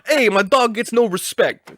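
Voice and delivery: a light impression of a griping stand-up; Rodney Dangerfield. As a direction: mimic the comic's gripe with a laugh. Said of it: "You turned into Rodney Dangerfield".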